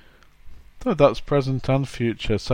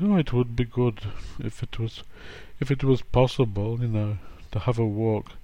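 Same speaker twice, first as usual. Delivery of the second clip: vague polite suggestion; 4 dB quieter than usual. Retold or imitated. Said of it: "polite language".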